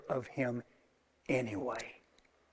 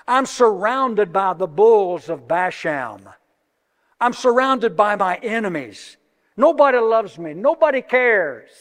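higher and louder, building to a cry; rising preached lament, nearly shouting at the end; anguished psalm lament; 4 semitones higher, 8 dB louder than usual. Acted. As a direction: pour out David's despair to the room. Voicing David's psalm lament.

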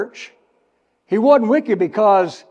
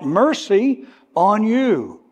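mercy slow and raised; mercy drawn out and high; stress on mercy; 4 semitones higher, slower than usual. Shown as a demonstration. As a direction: linger on mercy. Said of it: "underline it".

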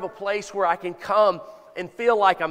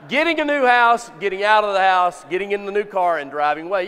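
excited; 6 dB louder, faster than usual. Real, not acted. Preacher calling out congregation answers.

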